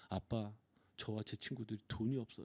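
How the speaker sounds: put-on sad tone. A father retells what his child said to him; imitating a sad voice. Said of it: "슬픈 목소리로".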